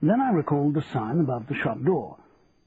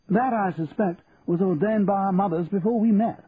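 Percy's voice; 7 semitones higher than usual. Acted. Percy's lines in story.

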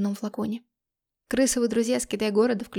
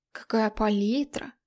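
mocking; slower than usual. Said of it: "Стебались мы".

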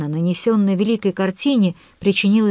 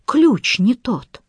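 slow, raised, helpless fury; sputtering foiled villain; 4 semitones higher, much slower than usual. Acted. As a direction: hammer out each word in rage. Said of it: "в бессильной ярости".

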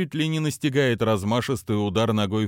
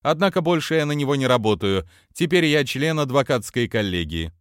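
cartoon princess; 6 semitones higher, 4 dB louder than usual. Price continues, fast.

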